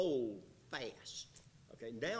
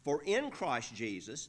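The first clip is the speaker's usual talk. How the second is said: "Christ Jesus" pressed louder; emphasis on Christ Jesus; 3 semitones higher, 5 dB louder than usual. Shown as a demonstration. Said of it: "now that's emphasized".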